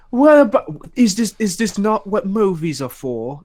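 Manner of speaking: lightly put-on pretentious British accent; mock British accent. Host mimicking pretentious YouTubers, mock British accent. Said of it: "keep giving these pretentious YouTubers British".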